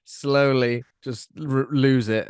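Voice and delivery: laughing. Real, not acted. Voice slowly losing act.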